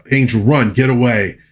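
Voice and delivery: retold yell. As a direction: imitate a warning cry without really shouting. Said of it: "Omar's yelling to her".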